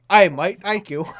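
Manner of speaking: loud, high hammed-up Australian "Hey, mate"; mock Australian accent. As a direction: belt it out like a cartoon Aussie. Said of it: "You doing the Australian accent was funny".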